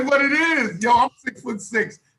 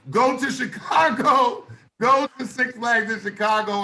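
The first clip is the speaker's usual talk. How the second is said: excited shout; 3 semitones higher than usual. Real, not acted. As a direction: call it out like a challenge. Hyped dare, laughing.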